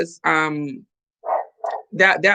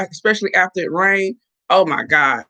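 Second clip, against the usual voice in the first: ordinary delivery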